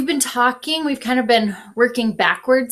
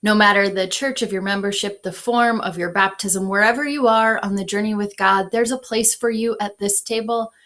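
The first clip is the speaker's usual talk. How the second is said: put-on Minnesotan accent. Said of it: "did you hear my great Minnesotan accent there".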